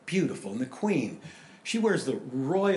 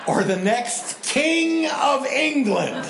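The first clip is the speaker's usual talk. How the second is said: mock dreamy wonder. Pastor voices Kate's imagined dilemma.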